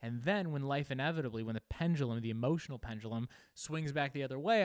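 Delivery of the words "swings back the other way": ordinary delivery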